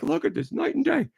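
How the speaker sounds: mocking enthusiast.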